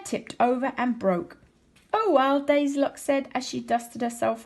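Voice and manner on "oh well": put-on bright little girl voice, louder; a girl shrugging off a fall; girl's voice. Daisylocks after chair breaks.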